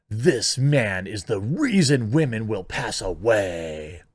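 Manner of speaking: slow, drawn-out dramatic reading; mock-grave, lingering on the words; mock melodrama. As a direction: stretch it out like an overblown proclamation. Mockingly reads out an overwrought tweet.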